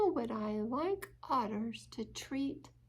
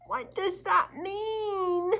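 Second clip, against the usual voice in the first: higher, slow puzzled rabbit; curious rabbit; 9 semitones higher, 6 dB louder, slower than usual. Acted. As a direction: ask it innocently, wide-eyed. Rabbit asks owl.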